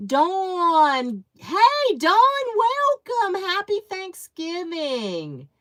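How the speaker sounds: high, loud, stretched-out welcome; gushing hello to a new arrival; excited greeting. Real, not acted. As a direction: call out to a friend arriving, thrilled. Greeting a viewer joining the live.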